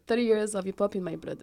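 English with a real French accent. Real, not acted. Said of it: "avec mon accent français".

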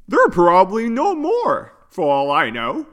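high, plaintive character voice; sad voice. A narrator's reading. Yuno tells friends of missing parents, sad voice. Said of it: "answered Yuno in a sad voice".

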